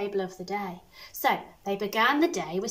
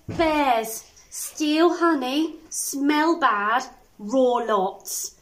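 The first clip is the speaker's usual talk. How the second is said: dramatic reading; 4 dB louder, much slower than usual. Acted. Reading a scary fact aloud.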